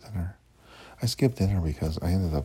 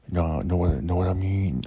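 put-on a louder, light Brooklyn accent; 5 dB louder than usual. Imitating the New York friend, a light Brooklyn accent. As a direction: lightly mimic a Brooklyn guy's catchphrase. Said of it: "he talks like he's from Brooklyn".

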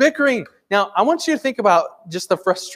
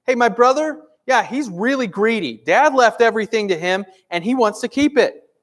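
heckler calling out; 5 semitones higher than usual. Retold or imitated. Man in the crowd yelling to Jesus about his brother, hammed-up. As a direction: imitate a pushy guy shouting for Jesus. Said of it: "he yells throughout the crowd".

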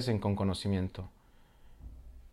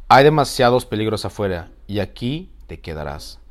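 dragon voice; 11 dB louder than usual. Acted. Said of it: "voz hosca, desconfiada y dudosa".

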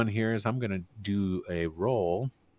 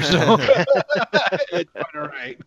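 laughing; 5 semitones higher than usual. Real, not acted. GM laughs at player.

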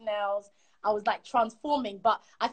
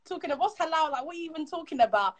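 higher-pitched incredulous questioning; mocking sister; 5 semitones higher than usual. Sister ridicules talk of halal, mocking. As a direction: imitate a sister who finds it ridiculous. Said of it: "my sister was laughing".

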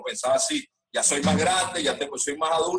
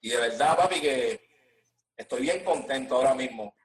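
lightly put-on Puerto Rican accent, casual interview talk; a hint of mock Puerto Rican accent, laughing through it. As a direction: play a Venezuelan artist faking a boricua accent in an interview. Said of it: "una entrevista así como si fueras boricua".

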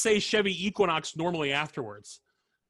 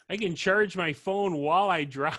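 Chicago accent; 4 semitones higher than usual. Shown as a demonstration. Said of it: "People from Chicago".

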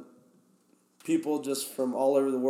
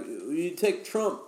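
high, halting Russian questioner; pitched-up imitation of a foreign buddy asking; imitated Russian guy; 8 semitones higher, slower than usual. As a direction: raise the voice into a Russian guy's eager question. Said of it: "he was like".

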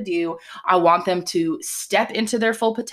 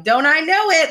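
a bright, louder "Don't I know it"; higher playful retort; knowing quip; 9 semitones higher, 5 dB louder than usual. Retold or imitated. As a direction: toss it off with a knowing laugh. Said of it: "I'm like".

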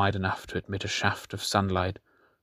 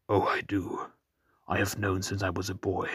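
breathy near-whisper, soft and tired; hushed reply; 5 dB quieter than usual. Acted. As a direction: say it under your breath. Weary captive answering quietly.

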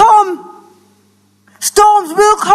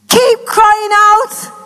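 very slow, each word stretched; drawn-out exhortation; 2 semitones higher, much slower than usual. Acted. Preacher urging the church to keep praying, slow and drawn out.

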